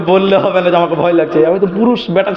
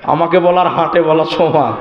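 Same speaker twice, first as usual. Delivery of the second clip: inner thought; 3 semitones lower, slower than usual. Retold or imitated. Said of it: "অন্তরে অন্তরে বলছি".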